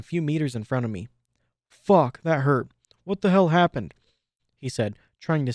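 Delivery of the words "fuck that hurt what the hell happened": pained outburst. Acted. Shot pegasus in pain.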